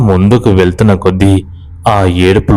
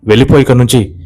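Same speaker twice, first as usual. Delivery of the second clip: threatening; faster than usual. Acted. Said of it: "అని బెదిరిస్తాడు".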